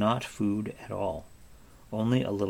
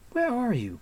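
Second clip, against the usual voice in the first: crying out; 13 semitones higher than usual. A narrator's reading. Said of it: "cried Taryn".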